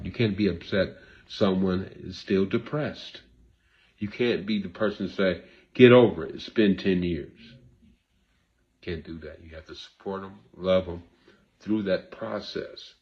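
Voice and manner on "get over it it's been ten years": impatient snap. Retold or imitated. Someone telling a griever to move on, loud impatient retort. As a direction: brush the griever off sharply.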